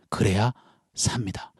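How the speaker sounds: 속삭이는 경고; 비밀을 알려주듯 속삭여; whispered warning. Retold or imitated. End of the urgent warning. (성도에게 살 길을 속삭여 알려주는 목사)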